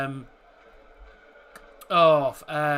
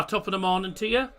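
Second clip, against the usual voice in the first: stock Irish greeting; faster than usual. Retold or imitated. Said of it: "I'm from Ireland".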